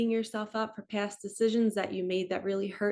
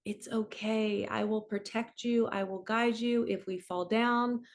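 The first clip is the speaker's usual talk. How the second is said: gentle reassurance. Shown as a demonstration. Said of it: "you just become really, really gentle".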